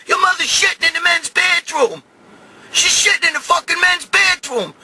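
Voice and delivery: high, exasperated yelling; outraged complaint. Retold or imitated. Outraged report to girlfriend.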